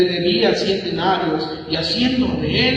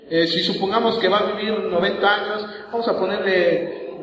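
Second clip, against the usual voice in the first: ordinary delivery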